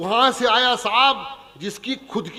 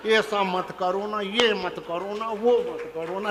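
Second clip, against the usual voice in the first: mock nagging wife; slower than usual. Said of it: "घर आओ तो बोलती".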